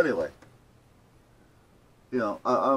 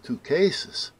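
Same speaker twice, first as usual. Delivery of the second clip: higher-pitched, querying echo; retold doubtful question; 6 semitones higher than usual. Caller questions clerk's count of cases, doubtful. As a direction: echo it back as a surprised question.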